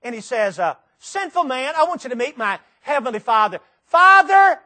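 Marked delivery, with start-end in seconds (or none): 1.0-3.6 high, loud, pleading call; voice of Jesus. Acted. Jesus speaking from the cross. 3.9-4.6 a loud, high, anguished call upward; loud cry. Acted. Jesus calling to his Father.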